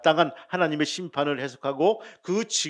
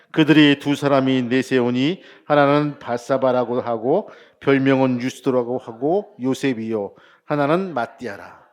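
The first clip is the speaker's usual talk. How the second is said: loud, measured congregational Bible reading; leading scripture reading; 8 dB louder than usual. Shown as a demonstration. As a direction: read the verse out loudly for all to follow.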